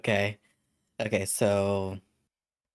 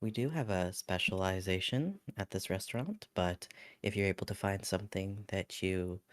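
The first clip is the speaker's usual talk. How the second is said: customer service voice; 7 dB quieter than usual. Acted. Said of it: "I guess probably just be like".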